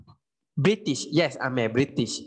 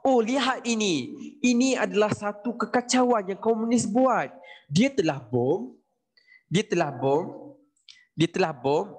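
higher, lightly put-on colonial officer, alarmed; a hint of a pompous colonial voice, higher at first; mock British official; 5 semitones higher than usual. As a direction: ham up a British official denouncing the communists. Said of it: "And then British cakap".

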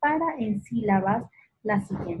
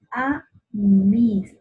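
"A, mis" as separate syllables, loud and drawn out; sílabas aisladas; 7 dB louder than usual. Shown as a demonstration. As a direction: isolate "A" and "mis" clearly. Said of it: "Aquí las sílabas átonas". ("A, mis" separadas y marcadas)

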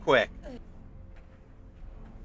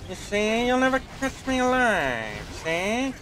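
put-on old-timey mobster voice; 4 semitones higher than usual. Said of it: "that old-timey mob voice thing".

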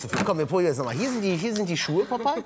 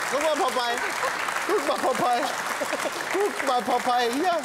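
higher sing-song pet talk; high coaxing voice; 8 semitones higher than usual. Real, not acted. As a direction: coax the bird up high. Coaxing the cockatoo.

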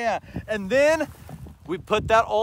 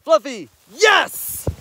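excited release; 6 semitones higher, slower than usual. Real, not acted. Releasing dog to retrieve.

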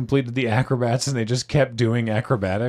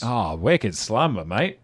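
slow, mock Australian accent; drawn-out Australian vowels, dropped R in "Slumber"; 2 semitones lower, slower than usual. Player joking with co-hosts on a card, Australian accent.

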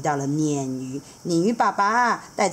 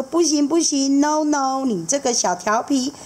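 higher, loving but firm; fond seahorse dad; 7 semitones higher than usual. Acted. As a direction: gently scold the little rascal. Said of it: "还看着他说".

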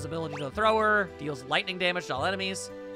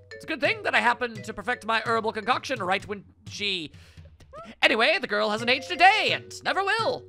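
feigning madness; 4 semitones higher than usual. Acted. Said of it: "The music implies intense wackiness".

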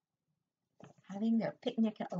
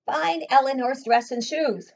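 rumbled; 4 semitones higher, 7 dB louder than usual. Acted. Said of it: "rumbled Hazel's mother".

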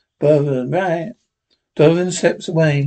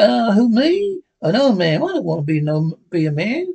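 higher, flustered sidekick voice; a sidekick ducking the nomination; Jingles' voice; 5 semitones higher than usual. Acted.

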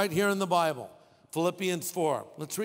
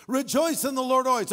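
raised, higher and louder proclamation; emphatic preaching; 6 semitones higher, 4 dB louder, faster than usual. Real, not acted. Pastor pressing the verse on his listeners, loud and high. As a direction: proclaim it to the crowd. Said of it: "Did you hear what I said?".

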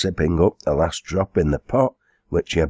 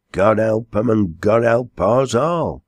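higher, drawn-out pious response; lightly voiced quarryman, fervent; 5 semitones higher than usual. Quarryman echoing the landlady's prayer, mildly fervent. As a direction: take up the prayer a little more strongly.

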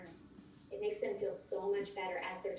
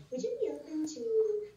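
higher and louder, inviting; model question; 12 semitones higher, 5 dB louder than usual. Shown as a demonstration. Coach showing how recruits will ask everywhere, pitched high. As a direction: lift the question up, bright and open. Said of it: "You're gonna say".

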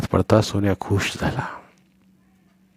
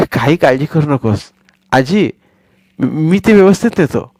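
put-on a higher boy's voice, all confidence; reassuring boy; 5 semitones higher, 3 dB louder than usual. Boy Sonya assuring grandmother he'll be careful, reassuring. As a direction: soothe the granny.

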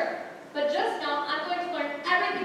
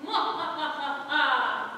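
slow villain cackle; 2 semitones lower, much slower than usual. Shown as a demonstration. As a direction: draw out the cackle slowly. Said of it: "how about this".

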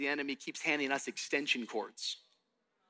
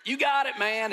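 put-on higher, louder good-old-boy encouragement; Tennessee boy cheering; 7 semitones higher, 4 dB louder than usual. Tennessee buddy cheering the city kid on, higher and louder. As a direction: hype him up like a backwoods buddy. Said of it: "they're like".

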